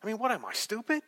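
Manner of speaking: mock-offended query, pitch climbing at the end; lightly played indignant Italian; Italian-style rhetorical question. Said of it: "Italians are the king of the rhetorical question".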